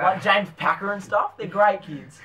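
mock Aussie bloke; put-on Australian accent; casual fake bogan. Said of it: "we're going Bogan".

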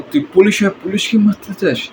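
menacing gangster dialogue; film villain threats; movie villain. Retold or imitated. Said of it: "আমি সবার চরিত্রের একটা dialogue ছিল".

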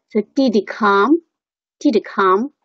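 "did he come" linked with no h, "di-di come"; weak form of HE. Shown as a demonstration. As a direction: say "did he come" as two quick d's then come. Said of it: "和这个强读". ("did he come"弱读，读成"didi come")

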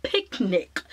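slow, lightly put-on British accent; a playful British accent for the name; hint of a British accent, tongue in cheek; mock British accent. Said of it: "I don't know why an accent came about".

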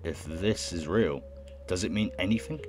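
slow, measured reading; unhurried narrator; story narration. Acted. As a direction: read it out slowly and deliberately. Reads game narration aloud.

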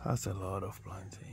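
breathy whisper under his breath; hushed murmur of quiet amazement; whispered aside. Real, not acted. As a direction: whisper it to yourself, almost no voice. Muttering to himself on farm tour.

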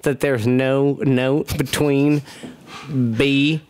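put-on Texas accent. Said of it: "Okay, you ready?".

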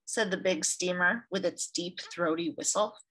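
gentle read-aloud storyteller; story narration. A narrator's reading. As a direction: read it like a picture book for children. Reads picture book aloud.

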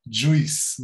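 "Juice" with a wrong i sound, JOO-ees; mispronounced juice. Shown as a demonstration. Teacher contrasting the common error, "Juice" as JOO-ees. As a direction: split the vowel of "Juice" into oo-ee. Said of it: "nós queremos muito dizer juice".

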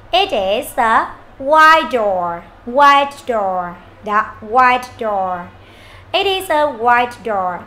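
slow, careful "It is a white door"; model sentence reading. Shown as a demonstration. Teacher leading the class through the sentence, slow modelling. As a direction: spell out each word slowly for learners. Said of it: "chúng ta sẽ đọc cả câu".

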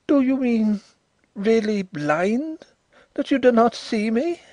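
high, startled cry; jolted as though electrified; shocked exclamation. A narrator's reading. Visitor learns the host is blind, electrified surprise. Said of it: "as though electrified by the word".

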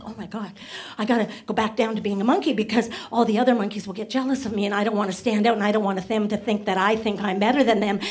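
embarrassed. Retold or imitated. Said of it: "he's really embarrassed".

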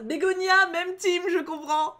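loud, high cheer of solidarity; excited shout-out. Real, not acted. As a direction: cheer her on loudly. Siding with the character excitedly. (même team, crié avec enthousiasme)

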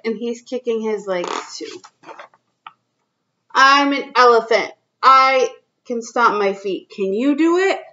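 put-on reading to children. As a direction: read it out to little kids, drawing each line out. Reads picture book to kids.

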